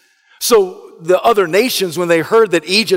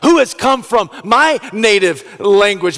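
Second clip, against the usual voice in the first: startled wonder; 6 semitones higher, 3 dB louder than usual. Acted. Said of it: "He thinks to himself".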